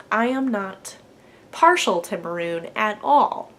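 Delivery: deadpan mock denial, slowing at the end; sarcastic. Podcaster jokingly denying her love of maroon, sarcastic. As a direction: deny it with deliberate, drawn-out sarcasm. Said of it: "That's sarcasm".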